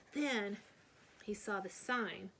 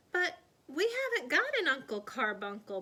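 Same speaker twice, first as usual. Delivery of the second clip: protesting; 5 semitones higher, 5 dB louder than usual. A narrator's reading. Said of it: "protested Alice Jane".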